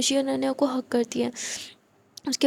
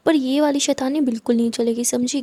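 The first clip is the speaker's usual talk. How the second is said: louder, motherly telling-off; firm warning; 4 dB louder than usual. Acted. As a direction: lay down the rule to the children. Mother warns the two girls.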